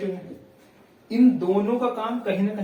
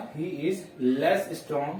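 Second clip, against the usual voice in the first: word by word, very slow; dictating to students as they write; slow dictation; much slower than usual. Shown as a demonstration. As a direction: spell it out slowly for the class. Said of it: "ये बनेगा".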